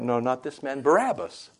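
mild mock crowd shout; crowd crying out. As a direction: call out Barabbas as the mob. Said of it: "They cried out".

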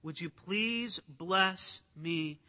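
humble, slow request for blessing; humbled plea. Retold or imitated.

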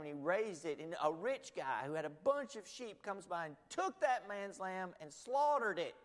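loud, building preacher's telling of the parable; retelling a sad story. Retold or imitated. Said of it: "tells him this sad story".

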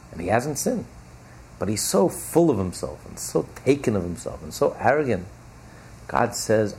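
ordinary talk, nothing marked

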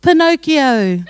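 high, loud, drawn-out call; shouting back. Acted. Old man in the joke answering Jesus, shouting back. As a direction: shout it slowly as the punchline. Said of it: "The old man shouts back".

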